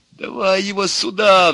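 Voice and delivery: loud, high-pitched roar. A narrator's reading. Pessimist demanding the leaf from the optimist, roaring. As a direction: bellow the demand. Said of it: "взревел пессимист".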